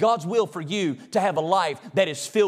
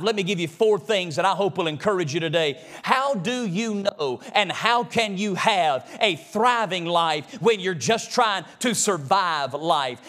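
usual speaking voice

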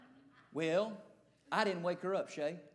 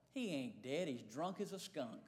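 muttered realization; 6 semitones lower, 9 dB quieter than usual. Retold or imitated. Thought aloud, realizing drunk.

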